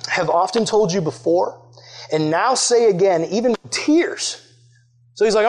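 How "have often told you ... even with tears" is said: slow reading. Shown as a demonstration. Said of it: "Look at those last two words there".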